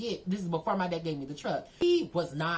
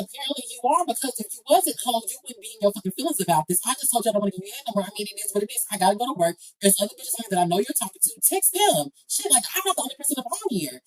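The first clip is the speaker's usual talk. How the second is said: louder, fast heated comeback; heated retort; 3 semitones higher, 6 dB louder, much faster than usual. Retold or imitated. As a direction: fire it back at him, louder.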